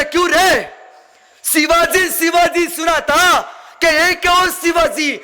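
high, slow, scornful Hindi taunt; a haughty general scoffing; mocking Afzal Khan. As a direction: sneer at the idea of Shivaji. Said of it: "Afzal Khan उठून उभा राहिला".

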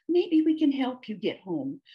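kindly, lifted voice; soft, gentle. A narrator's reading. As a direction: offer help to someone upset. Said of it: "she said softly".

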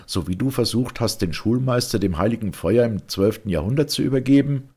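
höher und lauter, überlegen spottend; spöttischer Ich-Erzähler. Acted. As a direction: den Gefangenen mit ironischer Höflichkeit necken. Ich-Erzähler verhört den Mönch. (Erzähler verspottet den gefesselten Mönch lauter und höher)

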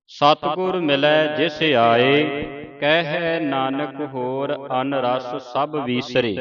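slow, measured Gurbani reading; drawn-out teaching recitation; scripture recitation. Shown as a demonstration. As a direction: recite the verse slowly, vowels held long.

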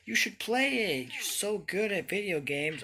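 high, slow mock cheerful voice; mocking quote. Mocking the friend who suggested the game, high sing-song. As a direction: parrot the friend who recommended it. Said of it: "this game was mentioned to me".

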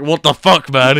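loud, outraged yell; angry shout. Retold or imitated. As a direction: shout it in disbelief. Guardsmen retold complaining.

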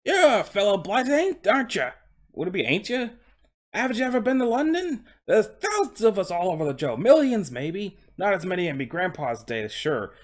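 high, incredulous Cockney horse; Cockney coach horse. Acted. Horse ribbing the ignorant interviewer, Cockney accent. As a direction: scoff in a put-on Cockney accent. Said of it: "he's speaking in a Cockney accent".

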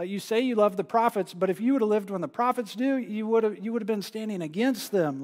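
preacher voicing Jesus scolding the Pharisees; Jesus rebuking. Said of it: "he's just rebuking them".

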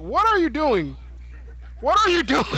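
mock high yell at a teammate; imitating Bear. Retelling Bear cussing out Pancake, mock high yell. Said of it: "Bear was just cussing out Pancake".

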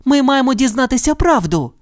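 high, determined cry; Judy's firm never. A narrator's reading. Judy refuses to quit, determined. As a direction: refuse with total resolve.

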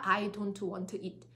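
I don't want it on one level pitch, no stress; monotone I don't want it; flat robotic tone. Shown as a demonstration. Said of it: "플랫한 톤".

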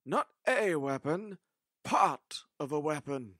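slow, firm correction hitting "Not" and "part"; emphatic correction. Acted. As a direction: contrast "weapon" against "part of a weapon", stressing "part". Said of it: "the doctor said emphatically".

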